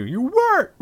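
high, loud joking outburst; mock accusing yell. Joking reproach to absent cousins, mock outraged yell.

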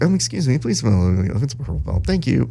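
lightly haughty mock announcement; mock pompous. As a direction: show off your belt in jest. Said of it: "love the idea of being like".

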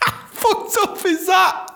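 squeaky, very high helium voice; like you've just sucked a balloon; very high chipmunk voice. Retold or imitated. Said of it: "their voice is like".

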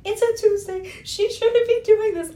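high, loud and slow exasperated quote; exasperated rant. Retold or imitated. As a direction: rant it like she can't believe it. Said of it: "'Cause I'm like".

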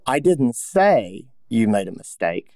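slow take with say stressed. Shown as a demonstration. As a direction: SAY punched, slow, falling. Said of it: "where do you put the emphasis on that?".

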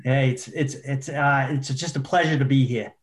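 put-on light Boston accent greeting. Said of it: "Give us something in a good Boston accent".

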